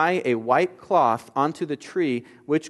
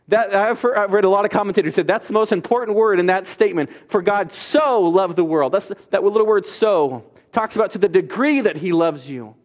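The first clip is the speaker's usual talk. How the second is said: higher, louder, quicker urging; excited insistence; 5 semitones higher, 4 dB louder than usual. Acted. Preacher to congregation, fired up about one word. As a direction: press the point with fire.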